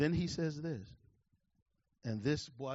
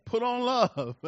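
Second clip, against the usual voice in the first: emphatic refrain; 7 semitones higher, 7 dB louder, slower than usual. Acted. Preacher repeats refrain.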